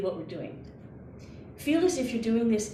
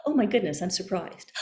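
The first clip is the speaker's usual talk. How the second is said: mock surprise. Shown as a demonstration. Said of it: "just do a little gasp".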